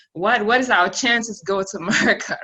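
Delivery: retelling a laughing, scoffing question; laughing disbelief. Retold or imitated. Kids laughing off dad's America idea, amused disbelief. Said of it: "We was laughing like".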